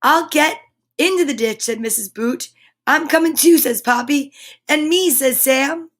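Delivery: bright, lively storybook read-aloud; animated picture-book narration; reading to children. A narrator's reading. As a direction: read it like story time for little ones. Reads picture book to kids.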